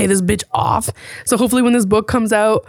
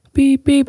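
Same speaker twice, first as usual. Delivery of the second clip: mild beep imitation; 5 semitones higher than usual. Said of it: "And I'm not talking, like".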